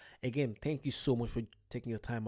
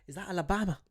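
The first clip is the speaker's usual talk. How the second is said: plain; 6 semitones higher, 3 dB louder, faster than usual. Shown as a demonstration. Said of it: "I love when I say Alabama".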